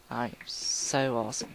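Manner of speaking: put-on British accent. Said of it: "I'm still talking like a British person".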